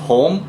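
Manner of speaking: "house, home" com H inicial soprado; aspirated h. Shown as a demonstration. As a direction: sopre o H de "home". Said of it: "o som do H". (H aspirado inglês)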